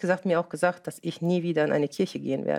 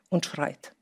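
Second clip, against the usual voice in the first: normal talking voice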